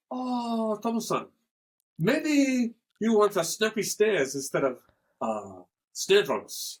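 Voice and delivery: light mock Japanese accent, slowing on the end; a hint of a Japanese drum seller. Imitating a Japanese seller suggesting snare drums, light Japanese accent. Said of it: "like in Japan".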